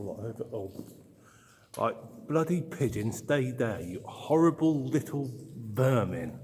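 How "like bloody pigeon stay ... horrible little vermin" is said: loud, exasperated scolding; annoyed shout at pigeon. Real, not acted. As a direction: shoo the pigeon off, irritated. Pigeon flies at him.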